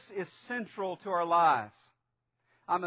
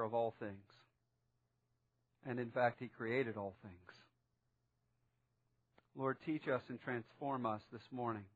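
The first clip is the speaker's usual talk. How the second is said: public prayer; 4 semitones lower than usual. Real, not acted. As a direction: lead the congregation in prayer, measured and low. Leads a prayer before preaching.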